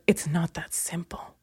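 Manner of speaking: hushed, wounded whisper; mock sensitive whisper. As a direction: whisper it like a hurt sensitive guy. Ex's line retold.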